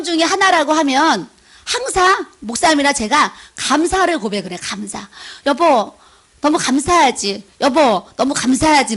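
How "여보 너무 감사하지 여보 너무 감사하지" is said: grateful to husband. Retold or imitated. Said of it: "막 이러는 거예요".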